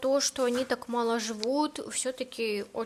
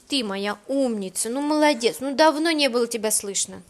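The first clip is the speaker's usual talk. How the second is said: praising the dog; 7 dB louder than usual. Real, not acted.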